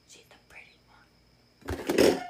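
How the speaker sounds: slow, unvoiced confiding aside; slow whispered secret. Real, not acted. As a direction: lean in and whisper it slowly. Confiding aside about Danny.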